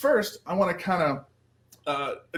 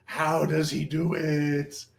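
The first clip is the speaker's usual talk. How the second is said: mock mystery; much slower than usual. Performer narrates own mystique.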